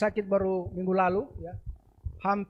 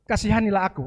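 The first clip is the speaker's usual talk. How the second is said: crying out; 3 semitones higher, 5 dB louder than usual. Acted. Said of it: "menguatkan hatinya untuk berseru".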